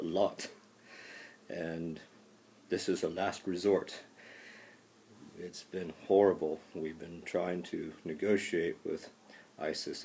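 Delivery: a mock solemn call to arms, lightly voiced; Washington war speech. Washington answering Doctor Munsell with mock war rhetoric. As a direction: deliver a hammed-up presidential war address. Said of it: "President Washington, offer war rhetoric".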